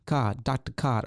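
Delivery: slow mock Jersey or Southern accent; attempted regional accent. Shown as a demonstration. Host unsure which accent, trying a slow Jersey-or-Southern one. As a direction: stretch it, Jersey-style, dropping the r. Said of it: "is that a Southern accent?".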